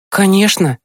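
put-on high, eager boy's voice; promising boy. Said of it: "пообещал Тимкин". (охотно пообещать высоким мальчишеским голосом)

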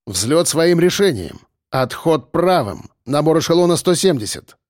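firm, measured cockpit command; commander's radio call. Acted. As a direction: call out orders into the headset. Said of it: "командир громко говорил в микрофон".

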